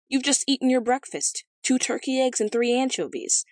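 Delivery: high-pitched, emphatic retort. A narrator's reading. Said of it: "retorted the king".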